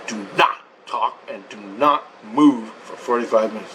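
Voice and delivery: "not" set apart and stressed, low voice; emphatic instruction. Retold or imitated. Woman instructs waking patient, emphatic stress on "not". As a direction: spell out "do not talk" and "do not move" with deliberate pauses. Retells her firm instruction, word by word.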